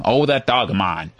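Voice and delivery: lightly voiced American accent; generic American accent. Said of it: "we can do a generic American accent".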